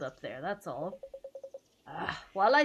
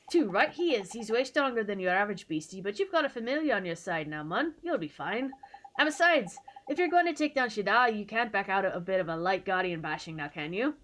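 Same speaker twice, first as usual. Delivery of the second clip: put-on Scottish accent. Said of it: "I'm assuming it's a Scottish accent".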